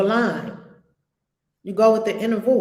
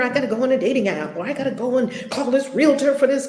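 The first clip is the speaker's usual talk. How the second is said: frantic muggle; faster than usual. Retold or imitated. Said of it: "'cause we're so muggleish".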